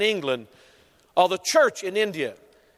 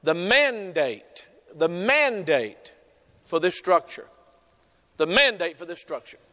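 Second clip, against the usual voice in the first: dictating slowly; 2 semitones lower than usual. Shown as a demonstration. Preacher to note-taking church: slow dictation. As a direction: dictate it so they can write. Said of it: "I want you to write this down".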